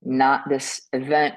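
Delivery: slow, deliberate refusals; emphatic no. Acted. Speaker giving examples of emphatic no's, slow and firm. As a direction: spell out each refusal slowly, firmly. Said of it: "There's emphatic no's".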